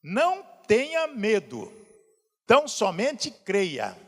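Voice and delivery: slow, measured reading of the verse; slow solemn reading of the Bible verse; solemn scripture reading. Shown as a demonstration. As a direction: read the verse slowly and gravely. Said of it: "Jesus disse ao dirigente da sinagoga".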